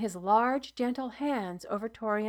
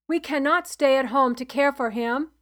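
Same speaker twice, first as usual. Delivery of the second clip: 1 insistent protest; 3 semitones higher, 7 dB louder than usual. A narrator's reading. Father protesting to healer.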